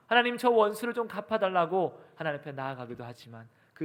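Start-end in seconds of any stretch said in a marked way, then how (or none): 0.1-2.0 raised, higher imitated plea; mild acted cry for vengeance, louder. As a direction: call out to God as the psalmist does. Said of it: "소리치기도 하고".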